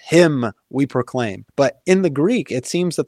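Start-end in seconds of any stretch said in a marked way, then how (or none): 0.0-1.4 slow, "Him" pressed first and strongest; stress on HIM. Shown as a demonstration. Repeating the English verse for the host, slow, "Him" stressed. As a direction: linger on "Him", then ease through "we proclaim". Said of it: "that's where the emphasis is".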